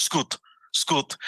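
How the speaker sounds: Scut with a rounded ooh, skoot. Shown as a demonstration. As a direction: make that little ooh in Scut. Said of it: "You gotta make that little ooh".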